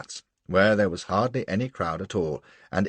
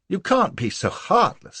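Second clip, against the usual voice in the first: desperate plea; 11 semitones higher, 4 dB louder than usual. A narrator's reading. Desperate plea to cold Lola.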